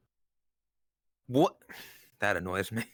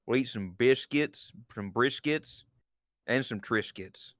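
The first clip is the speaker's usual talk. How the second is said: put-on Southern accent; slower than usual. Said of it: "That's what she sounds like".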